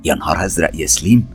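soft, hurried mild alarm; whisper-close panic about the girl; real fear. Acted. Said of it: "قالت أسماء برعب حقيقي".

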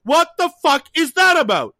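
high, loud outburst of outrage; real pissed off. Real, not acted. Podcaster ranting about the coffee promotion, pissed off. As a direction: rant in rising indignation, genuinely pissed. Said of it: "I'm actually pissed".

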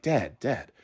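hushed mock plea to quiet down; retold shushing. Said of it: "shushing me".

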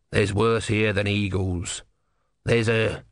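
slow, grudging tortoise voice; testy little god; grumpy tortoise god. Acted. Tortoise warns.

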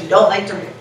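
choking mid-word; words catch in the throat. Real, not acted. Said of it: "choking now".

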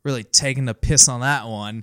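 lightly put-on Aussie; hint at an Australian accent. Quoting podcast slang, light Australian accent. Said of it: "in Australian or, like, an Australian phrase".

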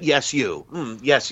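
lightly voiced admiral pointing at a reporter; imitating the admiral. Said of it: "And that".

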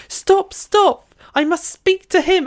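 high, breathless period heroine plea; melodramatic heroine. Retold or imitated. Host mocking an Austen heroine, high and melodramatic. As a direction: ham up the swooning lady in the carriage. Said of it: "she's like".

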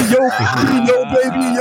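high, mock tough greeting; hammed-up intimidating dad.

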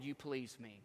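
softly spoken fatherly approval; tender affirmation. Acted. God the Father speaking approval, tenderly.

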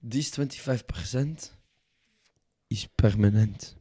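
lightly put-on French accent, haughty; a smug French dealmaker, mock accent. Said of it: "Fuck this French accent".

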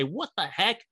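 mock the coach's fake Southern accent. Coach staring into the mirror, muttering in a lightly faked Southern accent. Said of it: "Using that fake Southern accent".

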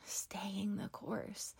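slow, hushed whisper of the phrase; whispered repeat. Shown as a demonstration. Podcast host echoing her motto to listeners, in a slow whisper. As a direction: breathe it out slowly as a soft echo.

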